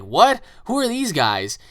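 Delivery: high, loud startled what; startled shout. Retold or imitated. Rigger startled as strangers appear, high loud startled cry. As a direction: jolt at the newcomers.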